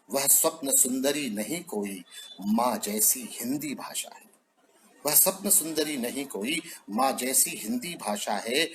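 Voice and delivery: measured, declaiming poem voice, lines repeated for weight; poem recitation. Acted. Poet recites Hindi poem to the assembled audience, declaimed.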